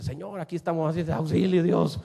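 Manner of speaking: half-playful desperate prayer; mock plea for help. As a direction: call for rescue, swelling at the end. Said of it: "de decir".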